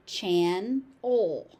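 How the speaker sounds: chan-ol split into two clear syllables. Shown as a demonstration.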